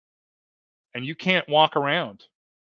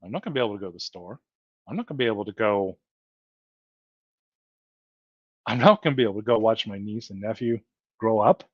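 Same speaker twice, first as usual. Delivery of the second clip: getting emotional; 5 semitones lower, faster than usual. Real, not acted. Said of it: "gonna get emotional here".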